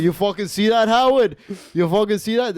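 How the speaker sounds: high, rowdy imitation yell; mock screaming. Man yelling to an imagined Howard, mock screaming. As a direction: holler it at an imaginary pal. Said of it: "It's just me screaming".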